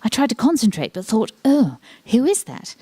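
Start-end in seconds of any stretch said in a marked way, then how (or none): 1.5-2.8 curious inner voice. Retold or imitated. Inner thought voiced aloud.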